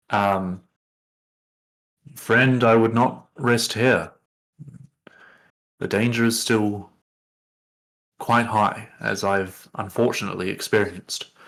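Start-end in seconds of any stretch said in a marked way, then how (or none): 2.1-11.2 voice dropped down deep, lower-pitched. A narrator voices a figure speaking to the listeners, in a deeper voice. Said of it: "you hear that deeper voice again".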